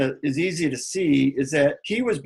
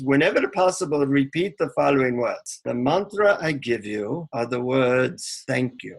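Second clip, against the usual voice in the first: put-on Indian accent. Guru reveals the long-awaited mantra to a seeker, imitated Indian accent. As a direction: solemnly hand over the secret in an Indian accent. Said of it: "in an Indian accent".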